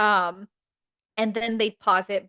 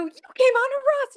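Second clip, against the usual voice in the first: much higher, louder gleeful accusation; group accusation; 5 dB louder than usual. Retold or imitated. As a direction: everyone catches her out at once. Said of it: "they go".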